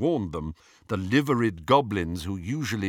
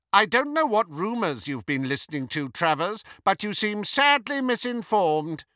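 high, haughty put-down; cold; 11 semitones higher, 3 dB louder than usual. A narrator's reading. Disguised Hermione rebuking Travers over rumours, coldly. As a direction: coldly correct him from a great height. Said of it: "said Hermione coldly".

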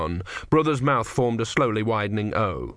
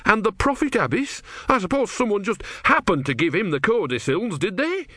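much higher, voice straining with anger; shaking with anger; 11 semitones higher than usual. A narrator's reading. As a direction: challenge the tortoise, trembling with rage. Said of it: "Brother was shaking with anger".

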